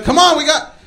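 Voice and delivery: high-pitched, hurried urging; urgent urging. Retold or imitated. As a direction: hustle a friend out the door. Blanco urges him to flee.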